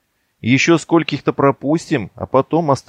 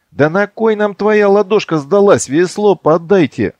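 shouting; 9 semitones higher, 4 dB louder than usual. Acted. Shouting from water.

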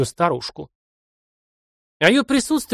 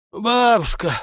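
calling out; 7 semitones higher, slower than usual. Acted. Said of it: "позвал Матвей".

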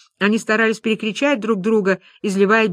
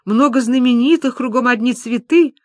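higher, fretful recitation; wound-up droning; 4 semitones higher than usual. Acted. Люба keeps repeating the sellers' promises, wound-up. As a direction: keep on like a wound-up toy, pitched up. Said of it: "как заведённая".

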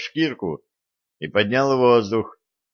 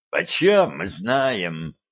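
slow plaintive whine; whining; much slower than usual. Acted. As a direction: whimper it, dragging. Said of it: "заскулил Жучок".

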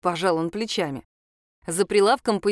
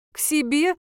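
растерянно; 7 semitones higher than usual. A narrator's reading. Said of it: "спросила я растерянно".

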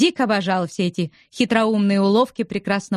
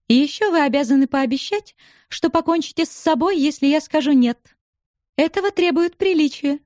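a higher, playful woman's voice; lightly voiced teasing young widow; 7 semitones higher than usual. A narrator's reading. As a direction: tease him with a light, higher voice. Narrator voices Julia. (слегка повыше, насмешливый женский голос)

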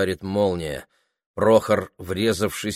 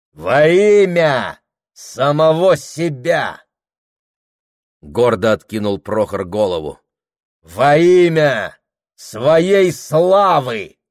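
higher, louder and very slow; proud declaration; 5 semitones higher, 7 dB louder, slower than usual. A narrator's reading. Husband answering his wife, slow proud proclamation. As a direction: throw the head back and proclaim.

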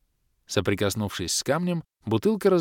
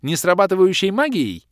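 contemptuous snort; 10 semitones higher, 6 dB louder than usual. A narrator's reading. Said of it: "презрительно фыркнула Кирея".

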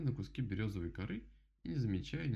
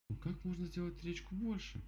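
higher, wondering; surprised bear; 10 semitones higher than usual. Acted. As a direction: wonder aloud. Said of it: "удивилась Мишка".

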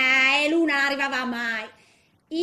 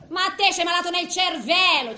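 rimprovero ironico; 4 semitones higher, 5 dB louder than usual. Retold or imitated. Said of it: "ci dicevo io".

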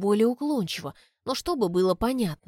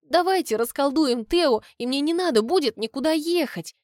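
much higher and louder, eager plea; pleading; 6 semitones higher, 3 dB louder than usual. A narrator's reading. The girl begs them to break the spell, pleading. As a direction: beg them hopefully.

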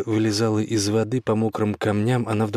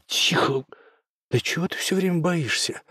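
irritated hush; 8 semitones higher than usual. Acted. Oscar hushing scared Gulya.

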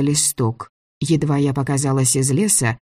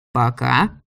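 «Пока» set apart with deliberate emphasis; stress on ПОКА; 2 semitones lower than usual. A narrator's reading. Director warning the girl, «Пока» pointedly stressed. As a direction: lean on «Пока», then pause. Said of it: "он подчеркнул это слово".

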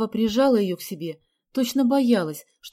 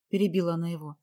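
usual speaking voice

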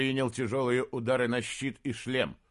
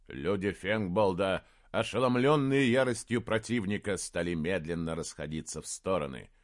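usual speaking voice

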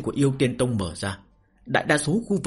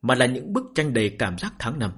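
story narration. A narrator's reading. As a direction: narrate the novel with measured phrases and pauses. Reads a novel aloud to listeners. (giọng kể truyện)

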